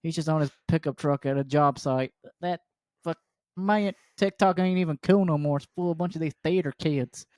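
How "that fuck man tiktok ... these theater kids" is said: griping Southern working-man voice; thick Southern accent. Acted. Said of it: "I'm giving him a thick Southern accent".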